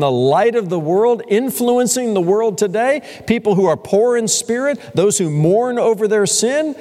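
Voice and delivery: a hint of a skeptical listener; puzzled disbelief. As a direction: play the doubter, pushing back. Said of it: "scratching your head and saying".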